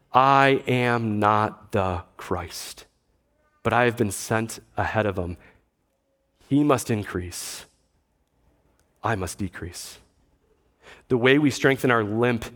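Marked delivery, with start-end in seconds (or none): 0.1-10.0 humble quote. Retold or imitated. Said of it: "He says in response".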